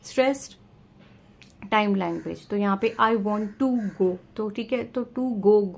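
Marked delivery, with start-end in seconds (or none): 3.0-4.2 slow phrase, weight landing on "go"; stress on GO. Shown as a demonstration. Teacher showing sentence rhythm, stress on GO. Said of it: "go जो है उसके ऊपर ज़्यादा stress". 5.0-5.7 slow "to go", weight on "go"; stress on GO. Shown as a demonstration. Teacher repeating the rhythm example, stress on GO. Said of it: "go जो है उसके ऊपर ज़्यादा स्ट्रेस".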